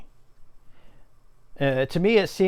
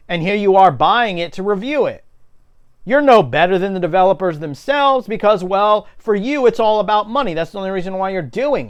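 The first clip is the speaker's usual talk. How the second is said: loud, high, angry accusation; angry shouting; 4 semitones higher, 5 dB louder than usual. Real, not acted. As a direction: shout it right at him. Ranting angrily about Angry Joe.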